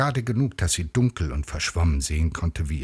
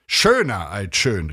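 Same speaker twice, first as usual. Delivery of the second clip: loud, drawn-out exulting cry; high, slow and emphatic; exclaiming; 5 semitones higher, 5 dB louder than usual. A narrator's reading. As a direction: call it out proudly, stretching the words. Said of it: "rief er".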